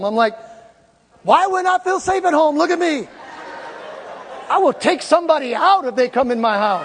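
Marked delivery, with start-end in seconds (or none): 1.2-6.8 incredulous retort. Retold or imitated. Retorts to doctor, mock indignant.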